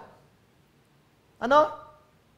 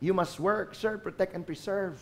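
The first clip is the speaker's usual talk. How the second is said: softer; 7 dB quieter than usual. Acted. Quiet repeat after loud call.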